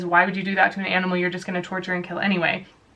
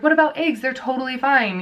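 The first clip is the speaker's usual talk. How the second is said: higher, dismissive mock of doubters; mocking quote; 4 semitones higher than usual. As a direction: mimic people brushing it off. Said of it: "a lot of people are like".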